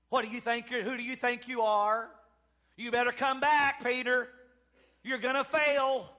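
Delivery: acted heckling from behind; mock scolding. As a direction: call him back with a loud warning. Disciples heckle Peter, acted by preacher.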